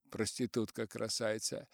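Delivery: ordinary delivery, nothing marked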